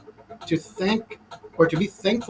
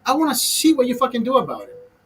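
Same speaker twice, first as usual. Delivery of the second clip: defiant retort; 5 semitones higher than usual. Retold or imitated. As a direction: challenge him to his face. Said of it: "I'm like".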